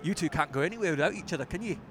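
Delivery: quick impression of a football manager; Dave Hopkin. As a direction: imitate the manager's teasing remark briskly. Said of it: "I think that's the perfect impression".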